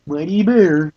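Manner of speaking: high solemn forest-spirit voice; mystical elder voice. Acted. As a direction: intone it like a wise elder. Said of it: "why that voice had to be".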